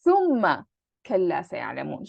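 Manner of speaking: quoting Quran. Shown as a demonstration. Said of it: "repeating this entire sentence".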